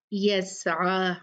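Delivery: यस्आ with a distinct throaty आइन; slow recitation, clear ain. Shown as a demonstration. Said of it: "आइन को वाजे करना है".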